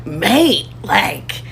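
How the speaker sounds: a light Scottish accent, imitating Black Scots online. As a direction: lightly put on a Scottish accent, matter-of-fact. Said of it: "with a Scottish accent going".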